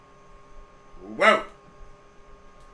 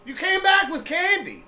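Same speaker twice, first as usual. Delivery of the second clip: high, louder mock outrage; playful accusation; 11 semitones higher, 6 dB louder than usual. Real, not acted. Host calling out dad for sneaking candy, mock outrage. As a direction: call him out high and loud.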